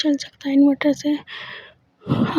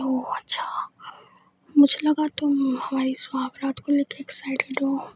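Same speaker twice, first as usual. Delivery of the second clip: whispered, much softer; 5 dB quieter than usual. Acted. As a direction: let it fall to a hushed whisper. Disappointed, hushed reply. (धीमी फुसफुसाती आवाज़ में)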